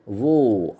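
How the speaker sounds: War with the R left silent. Shown as a demonstration. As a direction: drop the R at the end of War. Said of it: "R is silent there".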